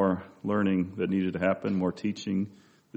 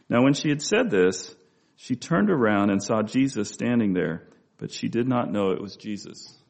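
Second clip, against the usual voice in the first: projected, slightly louder Bible reading; scripture reading aloud; 4 dB louder than usual. A narrator's reading. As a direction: read the passage out to the congregation. Reads scripture passage aloud.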